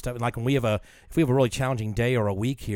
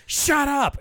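laughing shout; 4 dB louder than usual. Real, not acted. Laughing outburst at friend.

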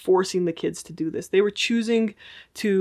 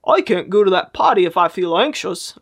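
louder silly voice; another weird voice; 6 dB louder than usual. Shown as a demonstration. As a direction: read the fear in a goofy tone. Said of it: "you start to use weird voices".

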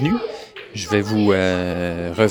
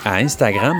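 chewing while talking. Real, not acted. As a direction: still chewing, mouth half full. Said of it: "excusez, je mange une banane".

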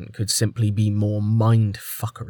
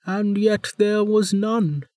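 put-on higher, stern older woman; warden voice; 7 semitones higher than usual. A narrator's reading. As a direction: lecture him like a wry jailer.

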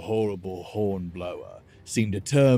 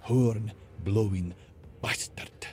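through gritted teeth; 2 semitones higher, slower than usual. Acted. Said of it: "cursed through gritted teeth".

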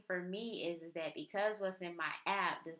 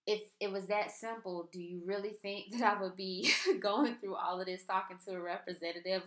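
sarcastic inner voice. Retold or imitated. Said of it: "that was going on in my mind".

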